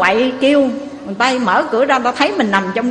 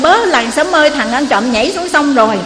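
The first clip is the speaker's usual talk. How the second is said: calling out to villagers; 3 semitones higher than usual. Acted. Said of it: "thì mới la làng lên".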